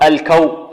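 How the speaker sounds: "الكو" with a light kaf and thin و; light waw. Shown as a demonstration. Teacher models the syllable for students, light kaf and waw. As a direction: keep "الكو" thin, no rounding into heaviness. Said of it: "فيها الواو مرققة".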